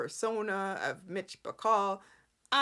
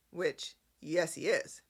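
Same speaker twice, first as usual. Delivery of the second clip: normal talking voice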